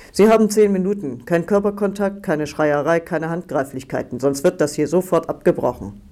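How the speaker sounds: guard laying down rules. Acted. Guard sets visiting rules.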